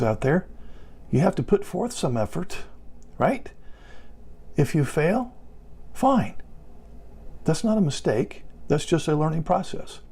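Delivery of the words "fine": emphatic fine. Real, not acted. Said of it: "reassuring spouses about failing".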